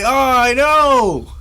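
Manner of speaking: high, drawn-out embarrassed whine; sheepish reply. Retold or imitated. Teen admits to bullies, drawn-out sheepish whine. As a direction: stretch it out, caught and ashamed. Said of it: "And I was like".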